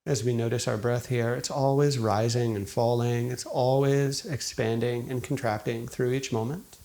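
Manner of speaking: calm, unhurried meditation guide, long pauses between phrases; guided meditation. Acted. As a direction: gently guide listeners into settling, leaving space after each thought. Leads a guided meditation after intro.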